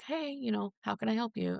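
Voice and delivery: high, bright nurse greeting on the phone; chipper phone nurse. Retold or imitated. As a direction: answer like a cheerful receptionist. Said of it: "a nurse answers the phone and she's like".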